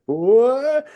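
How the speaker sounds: high, loud startled what; a high loud shocked what. Retold or imitated. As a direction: yelp it in shock. Sudden disbelief as Humvee vanishes.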